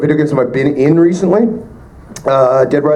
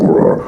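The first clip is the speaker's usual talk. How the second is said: centaur roar. Retold or imitated. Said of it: "he's this giant centaur, like".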